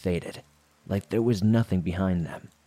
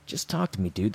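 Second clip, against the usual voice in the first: mock calm carjacker. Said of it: "he remains all calm".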